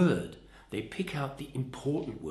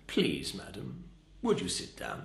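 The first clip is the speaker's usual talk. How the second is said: feeble request with PLEASE first; pathetic pleading; 4 semitones lower, 4 dB quieter than usual. Shown as a demonstration. Trainer shows how not to seat a passenger, pathetic. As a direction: ask meekly, a weak "Please, madam" up front. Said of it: "That's pathetic".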